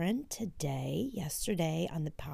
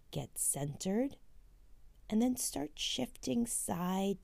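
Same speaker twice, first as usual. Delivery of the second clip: guided meditation. Acted. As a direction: guide them gently through each step. Leads a walking meditation.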